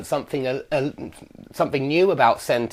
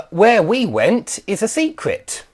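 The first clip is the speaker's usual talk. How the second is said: slow, higher reading that lands on "secret"; stress on SECRET; 5 semitones higher than usual. Shown as a demonstration. Teacher giving a W H cleft example, slowly stressing "secret". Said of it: "the part you're emphasising".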